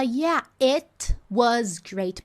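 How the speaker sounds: "Yeah, it was great" with each word separate, t exploded; wrong careful version. Shown as a demonstration. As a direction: say every t fully, slowly. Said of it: "ela não fala". (pronúncia errada, separando as palavras)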